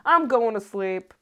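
a hint of a toy announcer; mock toy voice. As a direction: copy the toy's voice, slowly. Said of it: "imitating the bop it toy voice".

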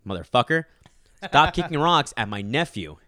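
what his stare meant. Pretend. To the rock-kicking kid, a loud mock scolding. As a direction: spell it out to the kid with a glare. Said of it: "as if".

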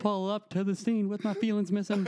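high, swaggering rap line; mock rapper. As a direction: spit it like a rapper making an entrance. Riffs rapper lyric.

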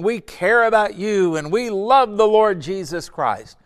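put-on public profession; mock proclaiming. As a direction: proclaim it grandly, imitating hypocrites. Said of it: "They were proclaiming".

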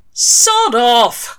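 loud, high snapping shout; angry snap. A narrator's reading. Crawley shouting at the storm cloud, angry snap. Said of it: "Crawley snapped at it".

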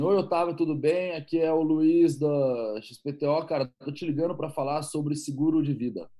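lightly voiced telemarketer pitch; a hint of a cheery cold caller. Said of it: "soa um pouco parecido com telemarketing".

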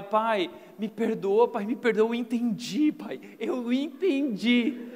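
slow, drawn-out begging son; pleading child. Retold or imitated. Son begging his father for forgiveness, drawn out. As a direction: drag out the plea for mercy. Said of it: "dizia assim pro meu pai".

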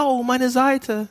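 mock complaint of pain; mock whining about pain. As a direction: drag out a self-pitying groan. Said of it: "Sagt er auch nicht".

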